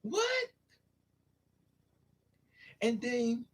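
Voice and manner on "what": pained cry. Retold or imitated.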